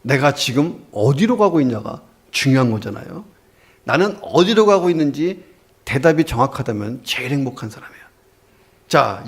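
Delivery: ordinary talk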